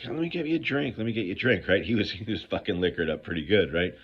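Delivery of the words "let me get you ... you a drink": put-on tipsy old man. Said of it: "he's like".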